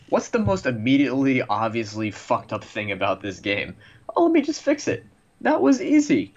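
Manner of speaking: high, mock-casual developer voice; mocking a lazy developer. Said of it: "and sometimes think".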